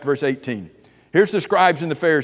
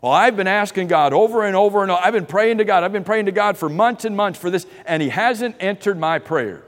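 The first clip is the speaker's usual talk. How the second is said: higher, louder, pleading complaint; frustrated complainer; 5 semitones higher, 3 dB louder than usual. Retold or imitated. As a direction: whine like someone tired of unanswered prayer. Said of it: "have you ever heard somebody say this".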